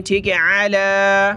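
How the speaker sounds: अला with the ain from the throat. Shown as a demonstration. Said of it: "आइन को गले से निकालें". (आइन गले से)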